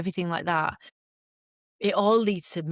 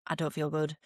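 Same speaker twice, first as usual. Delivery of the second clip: weak and unwell; 5 dB quieter than usual. Retold or imitated. Collapsing at the checkpoint.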